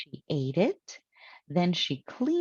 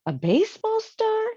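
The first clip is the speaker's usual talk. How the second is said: breathy whispered question, much higher; puzzled whisper; 5 dB louder than usual. Acted. Amelia Bedelia, baffled by the list, whispers higher in puzzlement. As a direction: wonder aloud in a hushed, baffled whisper.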